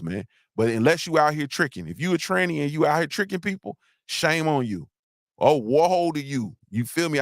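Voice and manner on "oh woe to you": mock biblical woe. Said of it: "that's what they say in the Bible".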